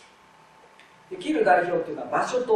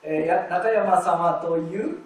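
slow reading; 4 dB louder, slower than usual. Shown as a demonstration. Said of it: "また「ゆう」が出ました".

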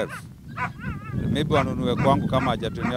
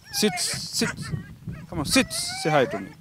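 high dog-talk voice. Real, not acted. High-pitched coaxing voice to dog.

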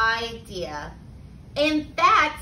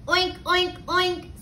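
higher-pitched storybook oinks; snorting pig; 5 semitones higher than usual. A narrator's reading. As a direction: oink like a pig, lightly. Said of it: "snorted Pig".

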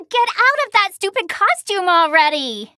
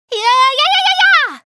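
rising, higher and louder yeahs; excited cheering; 6 semitones higher, 5 dB louder, faster than usual. Acted. Fighter celebrating a hit, excited high cheers. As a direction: cheer herself on, climbing in pitch.

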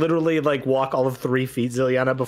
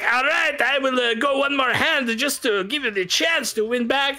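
high, smooth-talking card sharp; the speaker's gambler voice; 10 semitones higher than usual. Acted. Gambler coaxing the girl to keep playing, high and smooth. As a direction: coax her to play one more hand. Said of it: "he is like".

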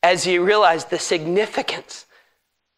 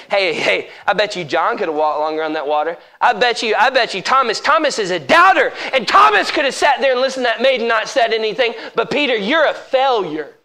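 Satan taunting; 4 semitones higher than usual. Acted. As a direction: build the mocking comparison to a sneer. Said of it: "Satan saying".

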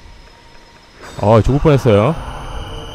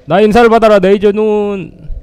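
mock battle cry; 7 semitones higher, 5 dB louder than usual. Streamer hams up a greeting attack on an invader, loud mock battle cry. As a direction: shout it like a cartoon hero firing a beam.

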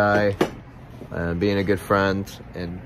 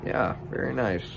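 talking around pipe stem; pipe in mouth. Real, not acted. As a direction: lips gripping a pipe. Seen 4: Pipe stem held between lips while talking, 0.1 to 3.4 s.

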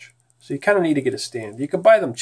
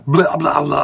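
Arnold mumble; 5 dB louder, slower than usual. Acted. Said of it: "I'm talking like Arnold".

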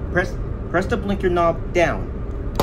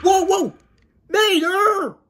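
high, exasperated cry; high startled holler; alarmed shout; 6 semitones higher, 3 dB louder, slower than usual. Acted. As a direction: call out sharply in alarm. Near crash with a train.

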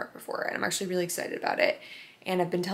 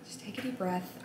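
calming herself; 10 dB quieter than usual. Real, not acted.

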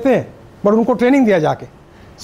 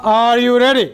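rousing call from the belly; hype call; much slower than usual. Shown as a demonstration. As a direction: project it to the whole hall. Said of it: "अभी मैं आपको बोलूँगा".

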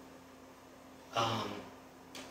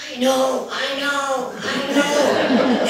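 high, laughing, shaken repeats; much higher, giggling through each I know; nervous laughing; 13 semitones higher, 6 dB louder, much slower than usual. Retold or imitated. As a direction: laugh it out in shocked disbelief.

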